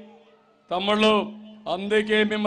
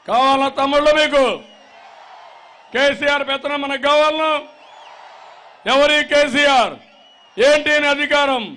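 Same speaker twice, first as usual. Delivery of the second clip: louder and higher, hurling the questions at the crowd; indignant rally shout; 4 semitones higher, 4 dB louder than usual. Real, not acted. Challenging rival before crowd. (కోపంతో గట్టిగా అరుస్తూ ప్రశ్నించడం)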